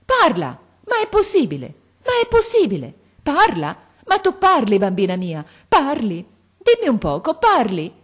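high, very loud cries of disbelief; crazed shouting. A narrator's reading. Father hears his mute daughter speak, shouting wildly. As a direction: shout like a madman, astonished. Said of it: "gridò come un matto".

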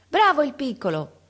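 grido acuto e forte di incoraggiamento; grido dalla finestra. A narrator's reading. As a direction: chiama da lontano, tutta entusiasta. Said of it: "Una donna gridò dalla finestra". (una donna grida dalla finestra per incitare il ragazzo)

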